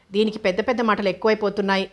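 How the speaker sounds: quick, mildly irritated grumble. Acted. Wife grumbling about the cheeky maid, quick and mildly irritated. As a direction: rattle it off, a touch annoyed. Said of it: "అంటూ విసుక్కుంది వినుత".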